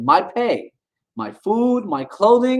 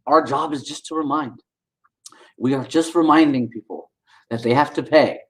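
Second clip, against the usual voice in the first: mocking imitation; 4 semitones lower than usual. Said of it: "And that's how he says it".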